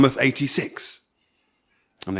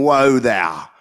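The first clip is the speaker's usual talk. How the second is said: mocking imitation; 3 dB louder than usual. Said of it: "Shy imitates him".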